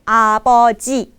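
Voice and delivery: apoji said slowly, every syllable clear; model pronunciation. Shown as a demonstration. Teacher modelling apoji for students, slow and clear. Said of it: "bukannya aboji, tapi apoji".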